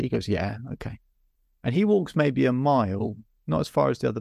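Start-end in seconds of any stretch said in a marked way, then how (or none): 0.3-1.0 softly spoken, hesitant agreement; sheepish. Acted. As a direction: agree sheepishly, a little under your breath. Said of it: "looks a bit sheepishly".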